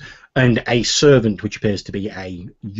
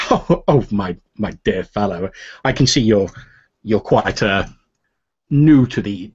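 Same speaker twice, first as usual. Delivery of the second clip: gentleman NPC. Acted. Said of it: "then says".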